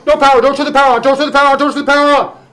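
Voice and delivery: panicked shrieking warning; frantic screaming. Acted. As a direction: scream it in terror. Panicked NPC survivor screaming.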